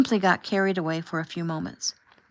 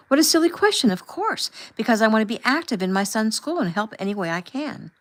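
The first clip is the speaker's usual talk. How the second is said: high, louder indignant voice; indignant scoff; 4 semitones higher, 3 dB louder than usual. Acted. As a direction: scoff with raised pitch. Chaperone scoffs defensively.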